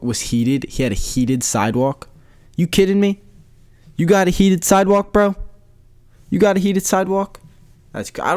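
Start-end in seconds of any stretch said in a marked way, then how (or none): 2.6-7.4 high, loud disbelief; can't believe what he's hearing; incredulous. Real, not acted. Podcaster outraged at a rich man's heated sidewalk, loud high disbelief.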